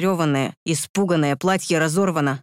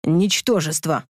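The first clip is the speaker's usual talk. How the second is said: contemptuous snort; slower than usual. Acted. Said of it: "фыркнул я".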